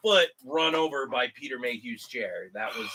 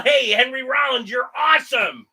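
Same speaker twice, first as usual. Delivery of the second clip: higher and louder shout across a crowd; yelling to a celebrity; 9 semitones higher, 6 dB louder than usual. Retold or imitated. Fan yelling to a celebrity, loud excited shout. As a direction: call out with fan enthusiasm. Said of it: "So I yell".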